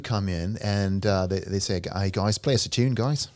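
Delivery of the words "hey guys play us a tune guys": put-on light Aussie accent, a hint only; Australian accent. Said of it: "Is that an Australian accent?".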